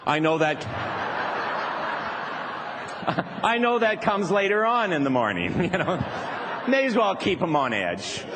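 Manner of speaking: chuckling through the words, pitch climbing; giddy teacher laughing at his own prank; gleeful laughing. Real, not acted. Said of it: "I'm having a tremendous time".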